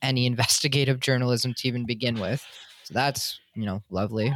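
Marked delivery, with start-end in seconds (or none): 2.8-4.3 dry, sarcastic deadpan. Real, not acted. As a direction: say it dripping with sarcasm. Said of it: "He says in a very sarcastic tone".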